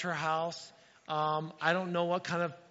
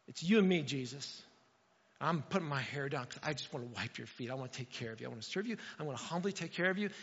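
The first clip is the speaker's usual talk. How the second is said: tender prayer; 5 semitones lower, 3 dB quieter than usual. Acted. Mary praying at Jesus' feet.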